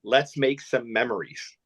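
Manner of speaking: put-on slow, drawn-out Jamaican-accented quote; lightly imitated Jamaican lilt. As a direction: imitate a caddy's Jamaican accent, taking it slowly. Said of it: "he had this sick Jamaican accent".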